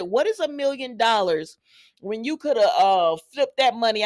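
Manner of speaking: insisting seriously, laughter dropped. Real, not acted. Vlogger insisting the offer is small, serious. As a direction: make the point in earnest. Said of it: "I'm being serious".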